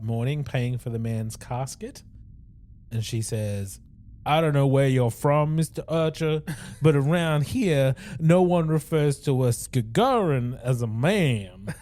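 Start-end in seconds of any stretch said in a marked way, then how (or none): 4.3-11.7 put-on Southern accent. Host voicing the teacher Bethany, Southern accent. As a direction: read her like a proper Southern lady. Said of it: "Are you Southern? ... like the deep South".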